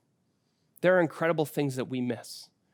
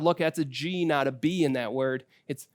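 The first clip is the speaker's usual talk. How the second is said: patient teaching; 2 semitones lower than usual. Retold or imitated. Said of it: "I had to teach my child".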